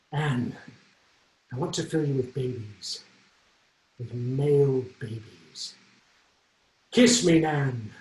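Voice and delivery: slow, halting, hesitant love line with long pauses; nervous stalling. Retold or imitated. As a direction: stall for time, scared of the kiss. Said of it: "I was just horrified".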